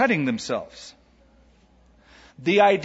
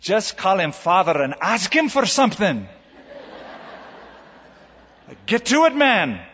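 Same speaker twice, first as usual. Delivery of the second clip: put-on higher, laughing, impatient old lady; impatient old Scottish lady; 4 semitones higher than usual. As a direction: she tugs the robe, tired of waiting: spit it out. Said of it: "she pulled his robe and said".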